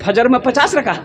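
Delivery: acted disbelief with a jump on पचास; incredulous question. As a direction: question पचास as if it cannot be true. Host astonished at the bluff. (हैरानी भरा सवाल)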